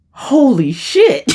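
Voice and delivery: slow, high-pitched exclamation of shock; astonished. Retold or imitated. Telling of realizing it's her, astonished. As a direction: stretch it out in stunned disbelief. Retold shock at spirit guide revelation.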